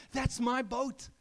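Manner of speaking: put-on boy begging the store owner for his boat; excited pleading; eager boy. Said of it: "he says to the store owner".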